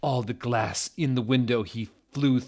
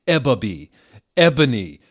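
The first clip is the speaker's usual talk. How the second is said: evil raspy voice; 3 semitones higher, 10 dB louder than usual. Acted. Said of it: "said evilly in his raspy voice".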